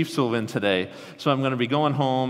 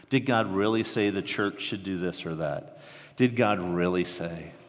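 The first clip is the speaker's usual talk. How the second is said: haunting serpent's question; 3 semitones lower than usual. Acted. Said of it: "he said the most haunting phrase".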